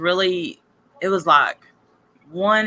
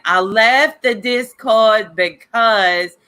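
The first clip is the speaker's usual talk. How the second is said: slow, drawn-out mock Boston tipsy voice; imitated tipsy girl; 3 semitones higher, much slower than usual. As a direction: draw each word out like she's been drinking. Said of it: "she had been drinking".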